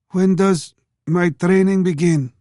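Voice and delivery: put-on eager young boy asking; boy's voice. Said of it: "the boy asked".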